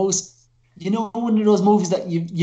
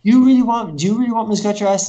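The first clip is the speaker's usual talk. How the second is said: incredulous reply; 4 semitones higher, 6 dB louder, faster than usual. Retold or imitated. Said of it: "the other character replies".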